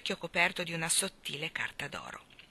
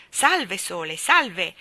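cried-out salute; 7 dB louder, much slower than usual. A narrator's reading. Orione hails the sun from the stands, crying out. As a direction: call out a ringing greeting. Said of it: "egli gridò".

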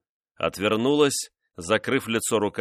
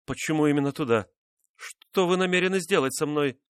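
anxious question; 7 semitones higher than usual. A narrator's reading. Frightened wife questions husband.

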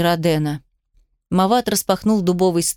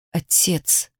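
hollow, lifeless call, softer; мёртвым голосом; 2 semitones lower, 5 dB quieter than usual. A narrator's reading. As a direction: call out with a dead voice. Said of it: "мёртвым голосом позвал он". (мёртвым голосом, тихо)

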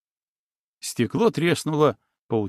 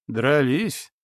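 hoarse. Acted. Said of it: "хрипло спросил он".

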